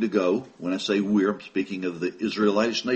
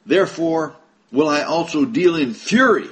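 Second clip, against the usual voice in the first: 1 wrathful God; 5 semitones higher, 5 dB louder than usual. Acted. God's threat read from scripture.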